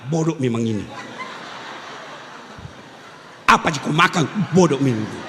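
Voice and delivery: scolding teacher. Retold or imitated. Teacher scolding a slow pupil.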